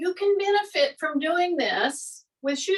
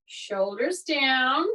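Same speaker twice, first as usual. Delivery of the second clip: slow cue; much slower than usual. Shown as a demonstration. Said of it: "This is a good time to say".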